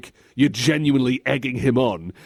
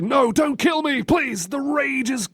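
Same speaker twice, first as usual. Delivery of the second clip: high, pleading hero; mock desperate plea; Liu Kang; 12 semitones higher than usual. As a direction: beg for your life, hammed up. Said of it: "Trying to convince Raiden".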